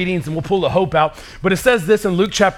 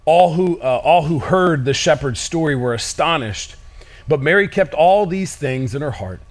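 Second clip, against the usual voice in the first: scripture reading; 3 semitones lower than usual. Acted. Reads Luke passage.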